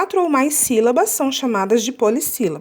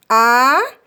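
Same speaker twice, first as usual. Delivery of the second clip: "abacate" split a, ba, ca, te with pauses; syllable by syllable; 3 dB louder than usual. Shown as a demonstration. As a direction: sound out abacate in four separate beats. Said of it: "Vamos contar".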